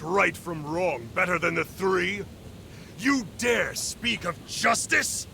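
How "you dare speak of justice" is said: indignant. Acted. Lord's anger rising in confrontation.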